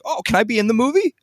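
high, excited mock voice; eager fan. Skater girl asking the film crew for a role, high eager mock voice. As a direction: gush like someone starstruck.

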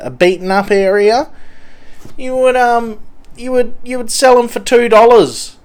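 a dodgy addict boasting; twitchy slurred sniffing addict. Pretend. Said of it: "Mister Junkie from train station".

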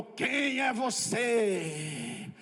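very slow, eerie spirit asking; possessed spirit voice. Retold or imitated. Spirit in the woman challenging the preacher, slow and eerie. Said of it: "aquele tranca-rua falou".

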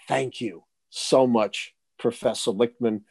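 slow, measured thanks, mildly relieved; retold relief. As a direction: imitate a deeply relieved thank-you, drawn out. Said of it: "sighs a big relief, and says".

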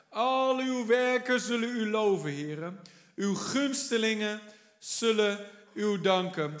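solemn Bible reading in a Dutch sermon; scripture reading. Acted. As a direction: read the psalm as a solemn proclamation. Reads the psalm aloud.

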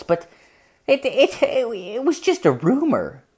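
hedging mom, stammering at the end; imitated mom. Mother voiced, uneasy confession.

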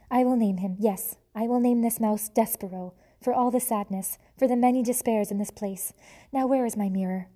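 put-on French accent, grand and self-pitying; dramatic French mother. French mother mouse naming her son, theatrical French accent. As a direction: announce the name like a French tragedienne. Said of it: "She was a French mouse".

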